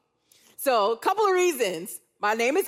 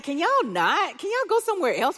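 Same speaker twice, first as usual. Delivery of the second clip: 1 exasperated plea; 6 semitones higher than usual. Retold or imitated. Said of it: "And I was like".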